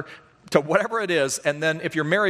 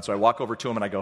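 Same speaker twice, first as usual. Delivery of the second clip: ordinary talk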